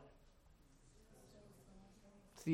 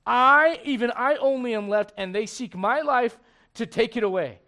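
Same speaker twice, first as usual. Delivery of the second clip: Elijah's loud lament; 5 semitones higher, 10 dB louder than usual. Retold or imitated. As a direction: stretch the I out in self-pity. Elijah's self-pitying cry.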